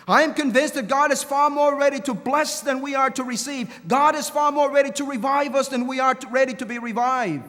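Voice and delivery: preacher swelling to a full-voiced climax; fervent preaching. Real, not acted. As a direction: drive it home from the pulpit. Preacher builds to a fervent peak.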